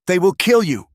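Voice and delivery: high, loud, panicked outcry; frightened cry. Acted. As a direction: cry out in terror for him. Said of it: "Mara cried".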